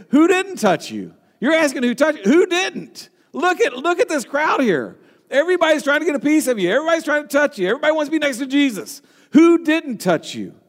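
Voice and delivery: high, exasperated disbelief, quickening in the middle; Peter, incredulous. Acted. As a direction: protest in disbelief at the absurd question. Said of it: "Peter's basically".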